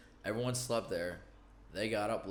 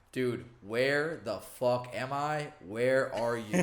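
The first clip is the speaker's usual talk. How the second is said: slow, louder, drawn-out demand; mock exasperated bewilderment; 3 semitones higher, 5 dB louder, much slower than usual. Friend just out of jail phones for a ride, mock exasperation. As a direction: imitate a lost friend demanding answers.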